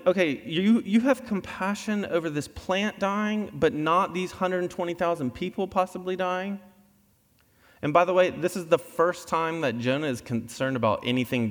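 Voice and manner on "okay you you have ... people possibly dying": raised pitch, disbelieving question; incredulous God. Retold or imitated. God questioning Jonah's compassion, incredulous higher voice. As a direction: lift it high like you can't believe it. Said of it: "he's going".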